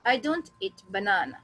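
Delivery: slow model sentence, banana stressed on its middle na; stress on the middle syllable. Shown as a demonstration. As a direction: say it slowly, lengthen the second syllable of banana. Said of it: "तो ये actual English है".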